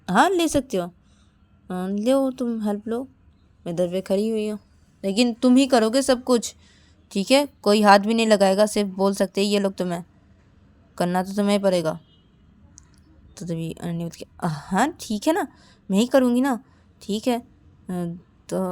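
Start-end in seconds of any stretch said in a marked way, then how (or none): 0.1-12.0 bossy orders. Acted. Payal bossily instructs. 14.4-17.4 irritated reply. Acted. Ananya annoyed reply.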